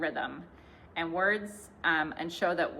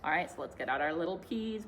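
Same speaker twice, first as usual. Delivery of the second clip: ordinary talk, nothing marked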